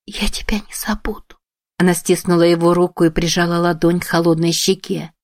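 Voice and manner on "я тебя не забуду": whispered, higher, tearful; whispered vow. A narrator's reading. Emi vows to dying Shiro, whispering. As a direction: whisper the promise.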